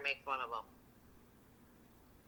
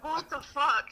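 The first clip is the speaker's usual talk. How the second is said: high, laughing disbelief; 8 semitones higher, much slower than usual. Real, not acted. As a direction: kahkaha arasında şaşkın bir tepki. Cracking up at friend's joke.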